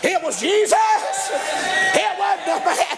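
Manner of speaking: high, ringing emphasis on Jesus; rising preaching shout. Real, not acted. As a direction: lift it up and proclaim it.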